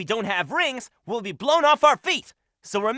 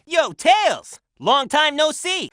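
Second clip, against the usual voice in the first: excited greeting; 5 semitones higher, 3 dB louder, slower than usual. Acted. Greeting an old friend.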